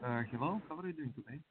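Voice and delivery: faint voice, far off; calling from far away; far from mic. Real, not acted. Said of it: "sounds like you're far away".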